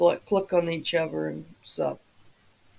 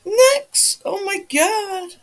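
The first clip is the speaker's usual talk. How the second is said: high, loud happy shout; excited greeting; 11 semitones higher, 6 dB louder, much slower than usual. Real, not acted. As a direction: call out in delight. Friend joins the live stream.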